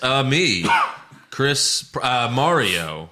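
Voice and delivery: put-on hesitant, halting Mario with no accent; accentless Mario. Host mocking Chris Pratt as Mario, halting and accentless. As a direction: stumble through the catchphrase in your own voice. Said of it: "will not be doing Mario's Italian accent".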